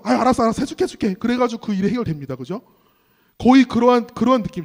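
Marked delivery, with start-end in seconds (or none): 0.0-1.1 mock-exasperated agreement, pitched up; imitated weary judge, fed up; bothered giving-in. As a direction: give in to a nagging petitioner. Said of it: "구차노가지고".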